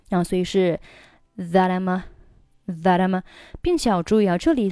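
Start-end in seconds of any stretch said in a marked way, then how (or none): 1.4-3.2 THAT I'M A linked, t softened to a d; linked, voiced t. Shown as a demonstration. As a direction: run "that I'm a" together, voicing the t. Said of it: "这个要浊化一下". (that I'm a 连读，t 浊化)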